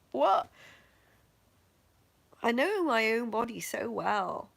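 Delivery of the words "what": baffled what. Retold or imitated. Surgeon's baffled look.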